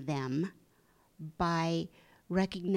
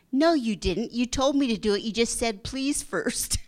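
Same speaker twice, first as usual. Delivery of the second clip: son talking back; 4 semitones higher, 5 dB louder than usual. Retold or imitated. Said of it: "And he said".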